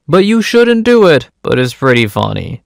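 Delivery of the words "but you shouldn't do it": high-pitched playful reproach; mock scolding. Narrator half-disapproving of the theft, mock scolding.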